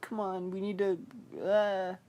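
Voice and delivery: high-pitched mock mom voice; put-upon mom. Mom urging her son along, high mock pleading. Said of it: "The mom's like".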